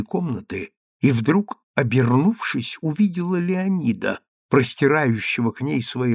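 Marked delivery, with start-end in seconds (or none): none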